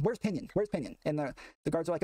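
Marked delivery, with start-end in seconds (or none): 0.0-1.0 yelling. Retold or imitated. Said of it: "they're yelling".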